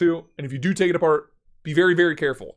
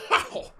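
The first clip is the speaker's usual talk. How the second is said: pained laughing ow. Real, not acted. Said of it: "Kick the shit out of my desktop".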